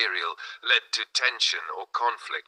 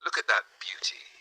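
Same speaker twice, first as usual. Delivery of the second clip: breathy seductive whisper; 5 dB quieter than usual. A narrator's reading. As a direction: whisper it like a temptation. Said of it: "he whispered".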